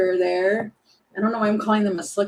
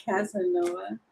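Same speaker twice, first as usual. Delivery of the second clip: softer, giggling and flustered; mock blushing reply through laughter; flattered, half-laughing; blushy; 4 dB quieter than usual. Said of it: "Maybe you get all blushy".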